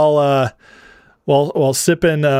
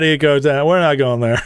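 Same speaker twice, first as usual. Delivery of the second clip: ordinary delivery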